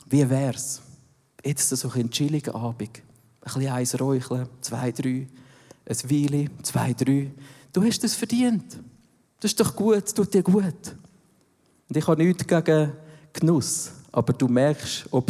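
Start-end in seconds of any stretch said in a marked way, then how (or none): 0.1-7.3 softer, lulling tempter voice, drawing you in; soft coaxing tempter. Acted. Devil voiced luring with a chill evening. 7.7-10.9 higher, honeyed tempter voice; sweet flattering tempter. Acted. Devil voiced flattering the listener.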